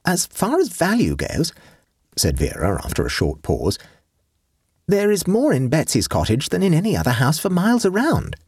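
put-on high, light young girl's voice; girlish Vera voice. Vera tells her aunt about Betsy, girlish voice. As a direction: lift into a teenage girl. Vera speaks after a pause.

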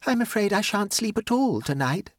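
high-pitched, pitiful complaint; pathetic. A narrator's reading. Lola warning she shan't sleep, pathetically. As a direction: plead helplessness in a high voice. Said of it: "said Lola pathetically".

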